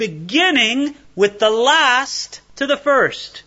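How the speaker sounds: master's command. Retold or imitated. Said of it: "the master said".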